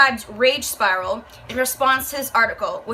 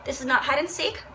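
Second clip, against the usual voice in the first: gentle mom; 9 dB quieter than usual. Retold or imitated. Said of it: "I'd be like".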